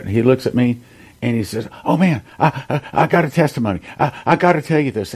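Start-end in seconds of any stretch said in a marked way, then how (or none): 1.8-5.1 lightly voiced surfer dude, a touch higher; a hint of an eager surfer guy bursting with news; a loose imitation of a surfer dude who can't wait to share. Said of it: "And that's the way he talked".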